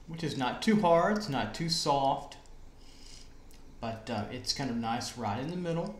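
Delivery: talking around a mint; speaking with a mint in mouth. Real, not acted. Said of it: "Sorry, I've got a mint in my mouth".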